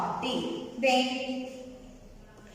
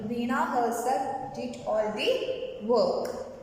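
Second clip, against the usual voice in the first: slower, spaced-out teacher's reading; slow repetition; slower than usual. Shown as a demonstration. Teacher repeating an example sentence for the class, slow and measured. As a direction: read it slowly, phrase by phrase.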